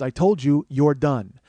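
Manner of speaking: loud, curt order to leave; angry order. Retold or imitated. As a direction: tell him he's done, hard. Bouncer orders comic out.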